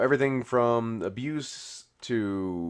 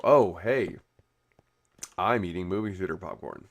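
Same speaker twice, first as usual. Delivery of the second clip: a light mock French accent on the popcorn line; barely-there playful French accent; 5 semitones lower than usual. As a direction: toss it off in a hint of a French accent. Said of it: "I don't know why I suddenly became French".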